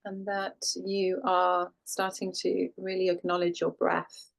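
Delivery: calm, unhurried settling-in voice with long pauses; guided meditation. Real, not acted. Yoga teacher guiding class to land and breathe, calm meditation voice. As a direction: ease the listener gently into stillness, leaving space between phrases.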